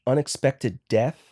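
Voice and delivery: "unexpected death" whispered slowly with a rising end. Shown as a demonstration. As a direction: breathe "unexpected death" slowly like an eerie warning. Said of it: "one of the things that they say is".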